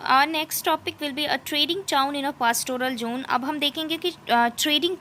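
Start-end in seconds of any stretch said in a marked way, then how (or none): 0.0-3.2 slow, deliberate reading of English text; slow textbook reading. Acted. Teacher reading the textbook passage to students, slow and careful. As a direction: read it out word by word, slowly.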